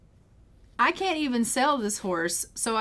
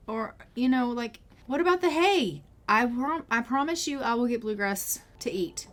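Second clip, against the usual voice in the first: fretting Amaya; 3 semitones higher than usual. Acted. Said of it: "Amaya's like".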